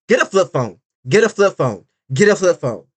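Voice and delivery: lightly mocked nagging repeat. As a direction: parrot her nagging, half-hearted. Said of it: "You kept repeating it".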